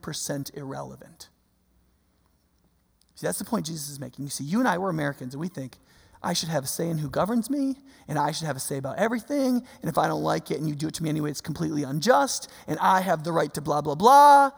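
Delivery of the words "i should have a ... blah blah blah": mock entitled complaint. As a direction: parody a self-important demand, swelling at the end. Mimics entitled American complaint, builds to blah.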